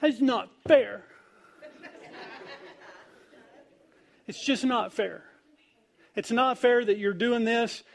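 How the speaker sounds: lightly hammed-up kid pouting that it's not fair; whiny little kid. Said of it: "Y'all ever seen little kids like that?".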